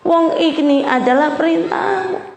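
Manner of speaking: mock reluctant prayer. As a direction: play the sulking wife who obeys anyway. Voicing a reluctant wife praying. (doa istri yang menggerutu)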